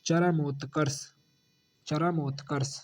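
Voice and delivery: चरमोत्कर्ष with the full रा clearly sounded; careful pronunciation. Shown as a demonstration. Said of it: "चरमोत्कर्ष में पूरा रा बनेगा". (चरमोत्कर्ष धीरे-धीरे साफ़ बोलें)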